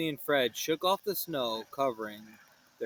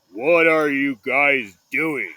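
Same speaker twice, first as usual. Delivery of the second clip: friend voice; 3 semitones lower, 8 dB louder, slower than usual. Acted. Disguised friend asks.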